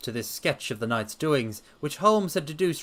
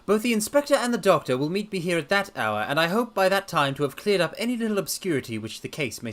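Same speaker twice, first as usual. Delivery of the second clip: a higher, assured detective; lightly voiced confident sleuth; Holmes voice; 5 semitones higher than usual. Holmes promising to clear up the case, assured.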